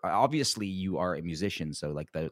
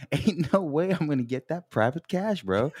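high, loud bro whine; 9 semitones higher, 4 dB louder than usual. Retold or imitated. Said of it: "repeating the bro line".

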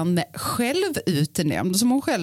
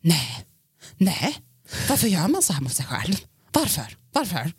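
mock drunk lament. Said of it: "så hör jag det från sovrummet så här".

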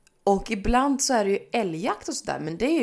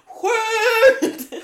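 much higher, loud yelled Skjut; shouted command; 13 semitones higher, 9 dB louder than usual. Retold or imitated. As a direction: yell it like a hunter in the woods. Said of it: "de var så här". (imiterat jägarskrik)

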